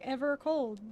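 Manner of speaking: Evercold said slowly, syllable by syllable; syllable demonstration. Shown as a demonstration. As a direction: draw out Evercold to show its syllables. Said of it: "where the syllables land".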